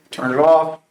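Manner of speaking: now make him do it, no arguing; firmer order. Retold or imitated.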